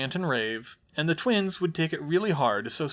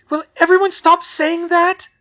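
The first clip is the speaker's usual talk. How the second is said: much higher, loud exasperated snap; snapping; 13 dB louder than usual. A narrator's reading. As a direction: snap at them, fed up. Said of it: "Hermione snapped".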